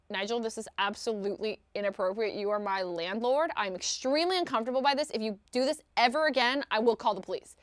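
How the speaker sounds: understated stern warning, starting low; stern message. Retold or imitated. Tenant warning landlord by message, restrained sternness. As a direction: recite it like a firm written complaint. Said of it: "very stern message to him".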